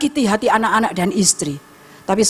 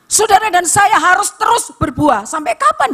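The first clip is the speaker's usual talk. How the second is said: high, forceful exhortation; fervent preaching; 11 semitones higher than usual. Real, not acted. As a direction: preach it with raised, urgent pitch.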